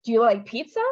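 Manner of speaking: PIZZA rises at the end; rising yes-no question. Shown as a demonstration. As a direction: open question, voice lifting on "pizza". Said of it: "All of those mean something completely different".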